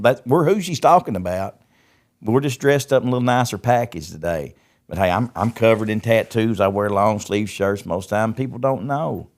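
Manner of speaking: heated retold plea to his wife; fervent retort. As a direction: insist "we're those people" with rising fire.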